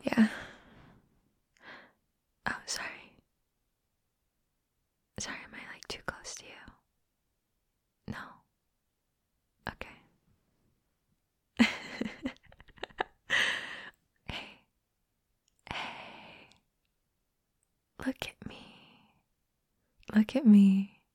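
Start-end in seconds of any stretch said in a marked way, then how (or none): 2.5-10.0 hushed apologetic whisper; soft whisper. Acted. Asking a shy friend if she is too close, whisper. Checking in while cuddling. 14.3-18.6 hushed coaxing whisper. Acted. Coaxing a shy friend to look up, whisper.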